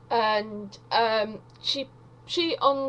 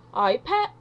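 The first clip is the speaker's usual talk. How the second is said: mock Geordie; 2 semitones higher than usual. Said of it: "doesn't sound anything like Scottish, that sounds more Geordie".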